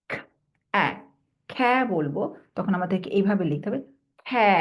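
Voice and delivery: খ plus অ্যা joined to খ্যা; blending demo. Shown as a demonstration. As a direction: phonics blending. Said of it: "এই sound দিয়ে".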